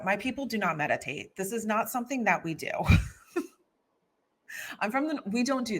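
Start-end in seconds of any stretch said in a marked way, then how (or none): 4.8-5.8 laughing through the words; high, quick giggle as she jokes about Philly. Real, not acted. Joking about her hometown to the host, laughing.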